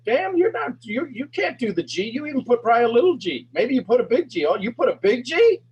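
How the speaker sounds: high, loud mocking doubt; doubting inner voice. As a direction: nag like a scornful inner critic. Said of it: "They're like".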